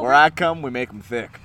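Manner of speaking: New Jersey attempt slipping into Southern; accidental Southern twang; botched Southern-sounding accent. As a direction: put on a badly faked Southern accent. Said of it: "that was kinda Southern".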